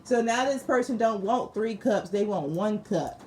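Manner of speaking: can't help laughing at it; amused laughing. Real, not acted. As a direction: talk through bursts of laughter. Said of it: "I'm sorry, it's not funny".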